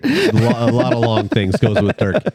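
laughing through the words; real laughter breaking in. Real, not acted. Joking about donor's name.

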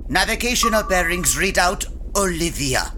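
put-on grudging German accent. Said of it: "Ach, fine".

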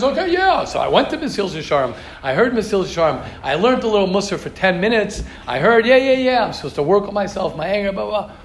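dismissive. Acted. Mimics a guy brushing off self-work.

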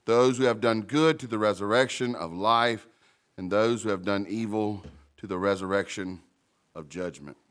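prayer. Acted. Pastor praying before the sermon, earnest and humble. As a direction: pray humbly over the passage. Reading scripture then praying.

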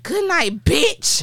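put-on high-pitched sassy kid kiss-off; mock child's parting shot. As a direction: imitate a little girl, voice jumping way up. Retold child's sassy goodnight.

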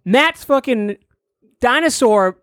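high, breathless storytelling panic; frantic improv story. Acted. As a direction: hype it like a cartoon panic.

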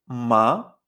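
"ma" starting low and sweeping upward; second tone. Shown as a demonstration. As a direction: glide up through "ma" as if questioning. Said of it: "a la hora de pronunciar este tono ascenderemos".

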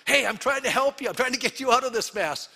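mock-gentle plea to a biting critter; coaxing a trapped creature. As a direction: soothe a frightened little animal. Talking to a trapped animal.

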